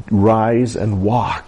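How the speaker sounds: slow, deliberate command. Retold or imitated. Jesus tells the lame girl to rise, slow command. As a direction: give each word time.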